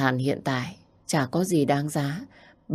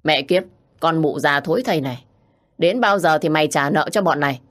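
louder, rough threatening yell; yelling thug; 4 dB louder than usual. Acted. Debt collector yelling at mother, louder threat. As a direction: shout abuse at the old woman. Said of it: "quát tháo".

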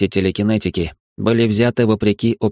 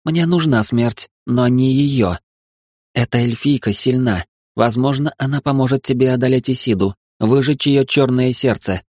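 higher, menacing goddess voice; demoness voice; 4 semitones higher than usual. Acted. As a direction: promise death with relish. Astarte explains her plan.

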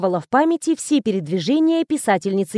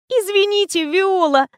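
whimpering; 9 semitones higher than usual. Acted. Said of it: "захныкала Оля".

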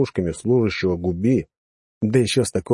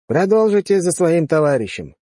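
commanding officer; 8 semitones higher, 4 dB louder than usual. Acted. Officer gives an order.

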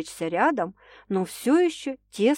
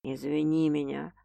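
low, softer man's apology, almost whispered; 5 semitones lower, 5 dB quieter than usual. A narrator's reading. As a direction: breathe the apology close to her ear. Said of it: "прошептал Стас".

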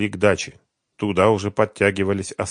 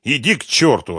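snapping; 6 semitones higher, 5 dB louder than usual. A narrator's reading. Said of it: "огрызнулся Харьков".

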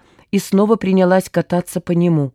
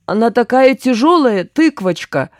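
higher, plaintive moan; groaning complaint; 5 semitones higher, 3 dB louder than usual. A narrator's reading. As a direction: moan as if weighed down. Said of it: "простонал Гуркин". (жалобно стонет)

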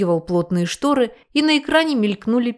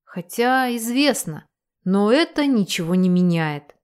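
ordinary delivery

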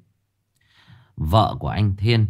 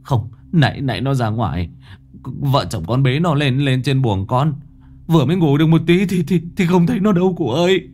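words tumbling out, stammering in fear; panicked; 6 semitones higher than usual. A narrator's reading. Father tells the old woman his daughter vanished, panicked and rushing.

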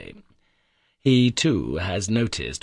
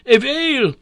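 much higher, louder repeated "whale"; louder shout; 9 dB louder than usual. A narrator's reading. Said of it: "shouted the professor".

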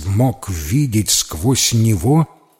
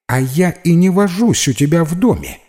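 higher proud little voice, stress on вожусь; 8 semitones higher, 4 dB louder than usual. A narrator's reading. Fabi proudly answers Max, higher voice. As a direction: declare it with dignity. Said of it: "гордо заявил Фаби".

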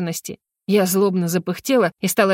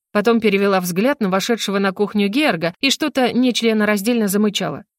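usual speaking voice

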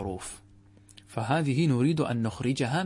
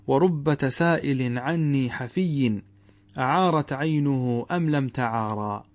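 slow, measured chant of a verse; poetry recitation; slower than usual. Shown as a demonstration. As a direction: recite the verse slowly, savouring each word.

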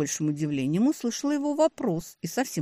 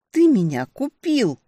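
higher, louder, slow accusing yell; furious shout; 9 semitones higher, 8 dB louder than usual. A narrator's reading. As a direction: scream the accusation at him. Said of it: "закричала я".

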